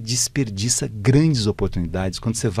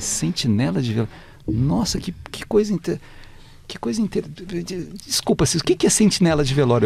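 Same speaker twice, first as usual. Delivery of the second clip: astonished; 9 semitones higher than usual. Retold or imitated. Astonished at strange job.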